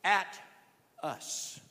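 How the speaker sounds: Peter's command. Retold or imitated. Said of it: "Peter looks at him and says".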